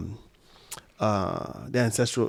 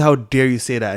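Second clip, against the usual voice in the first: a mild retold stern scolding, a bit louder; stern rebuke; 6 dB louder than usual. Friend rebuking him for mocking Brazilian wine, mildly stern. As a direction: imitate her offended stern tone, lightly. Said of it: "she said it in such a stern way".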